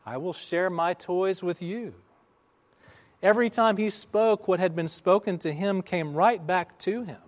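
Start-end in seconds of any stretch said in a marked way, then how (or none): 0.0-1.9 high but softened answering call; imitated echo reply. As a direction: play it as a fainter echo. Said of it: "the voice came back".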